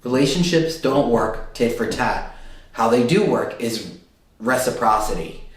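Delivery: slow down and set each phrase apart. Real, not acted. Reader slowing down to explain relationships to Scorpios, measured and deliberate. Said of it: "Let me slow down here".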